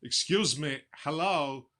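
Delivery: a hint of a quirky deadpan actor; lightly voiced eccentric pauses; Christopher Walken impression. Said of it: "he was in some movie once where he just goes".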